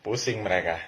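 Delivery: normal talking voice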